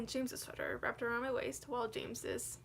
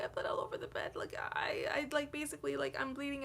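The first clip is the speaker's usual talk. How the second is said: whispered, tense and hurried; panicked whisper; 3 semitones higher than usual. Retold or imitated. Telling her boyfriend at night she bled, panicked whisper.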